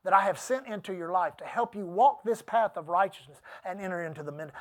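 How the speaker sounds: measured, quiet reproof; mildly stern, subdued divine correction; softly spoken rebuke, sinking at the end; God's rebuke. Retold or imitated. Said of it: "That's how he said it".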